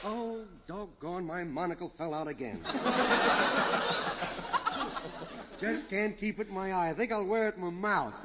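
fussy mock British gent fumbling his monocle; lightly hammed-up British accent. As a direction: play the bumbling English toff. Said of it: "What is this monocle British accent".

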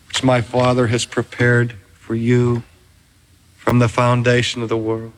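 low, gentle calling of a beloved name; the Lord tenderly welcoming the preacher's wife; tender welcome. Acted.

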